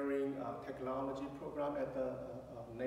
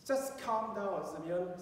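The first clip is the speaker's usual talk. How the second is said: calming; 4 semitones higher, slower than usual. Retold or imitated. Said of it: "I need to calm him down first".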